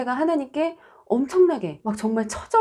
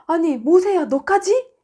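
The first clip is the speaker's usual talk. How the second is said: shocked; 7 semitones higher than usual. Retold or imitated. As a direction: gasp out in horrified disbelief. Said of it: "막 이렇게 시겁했는데".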